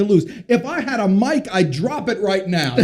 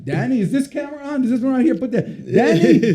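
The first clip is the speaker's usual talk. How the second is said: put-on higher dad voice in French Jewish accent; 5 semitones higher than usual. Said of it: "in his little French Jewish accent".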